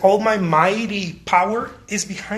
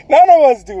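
ordinary talk

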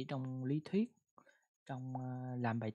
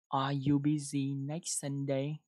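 slow repeated question; 3 dB louder, slower than usual. Shown as a demonstration. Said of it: "đọc một câu nào".

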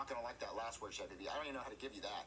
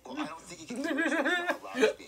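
helium laughing; 11 semitones higher, 12 dB louder than usual. Acted. Helium laugh, loud, far timbre.

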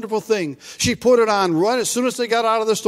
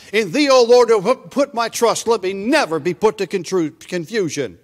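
raised, measured scripture reading; 3 dB louder than usual. Acted. Preacher reading a psalm aloud to the congregation. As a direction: read the verse out to the congregation.

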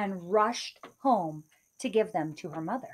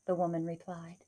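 put-on old woman; 6 semitones higher than usual. Old woman tells Kate of the giant, high kindly voice. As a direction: tell the sad tale gently as a grandmother.

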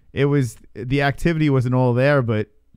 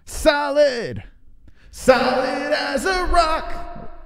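mock tough guy; 13 semitones higher, much slower than usual. Bragging about his arm.

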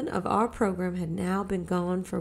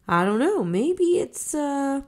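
puzzled; 7 semitones higher, 6 dB louder than usual. A narrator's reading. Father puzzled by bird.

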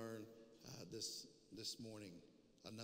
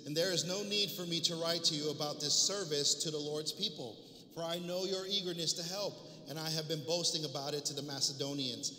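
reading the epistle aloud with firm projection; preacher reads scripture to the congregation, emphatic and measured. Acted. Preacher reading Paul's letter to his church, emphatic public reading.

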